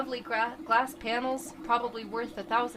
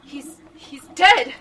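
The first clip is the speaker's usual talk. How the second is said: horrified whisper; 6 semitones higher, 14 dB louder, slower than usual. Acted. Dex sees Mike killed.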